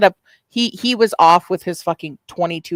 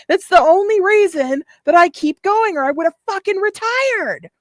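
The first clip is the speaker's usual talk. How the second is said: high-pitched yelling; 11 semitones higher than usual. Retold or imitated. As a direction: shriek the rant like a drunk streamer. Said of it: "that high-pitched yelling".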